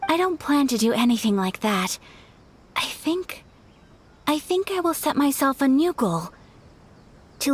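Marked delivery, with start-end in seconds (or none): 2.8-3.4 high, soft, almost whispered hesitation; nervous hesitation. Real, not acted. Ayaka hesitating softly before inviting the Traveler. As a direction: lose your nerve on the words.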